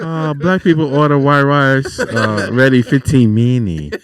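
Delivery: slow, hammed-up Asian accent; mock Asian takeout accent. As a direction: draw out a mock Asian order-taker's accent. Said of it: "Why you keep saying fifteen minutes like that?".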